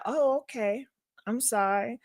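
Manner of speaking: soft, quiet, mock submissive; a touch of sheepish sorry; meek apology. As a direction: apologise meekly, backing down. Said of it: "I just said".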